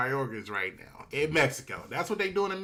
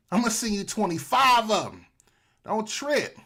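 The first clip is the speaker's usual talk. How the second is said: boastful Trump; 3 semitones higher, 4 dB louder than usual. Acted. Voices Trump offering troops.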